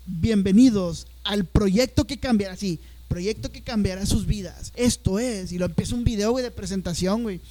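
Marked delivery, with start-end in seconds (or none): 0.0-2.5 slow, grand promo voice; the launch video's narrator, slow and grandiose; mock announcer. Quoting the presentation's announcer. 3.1-5.5 slow, grand promo voice; the launch video's narrator, slow and grandiose; mock announcer. Repeating the announcer's line.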